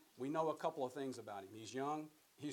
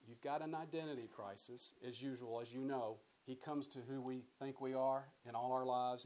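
usual speaking voice

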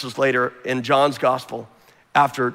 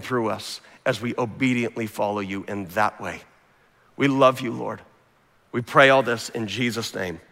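prayer. Acted. Leads closing prayer.

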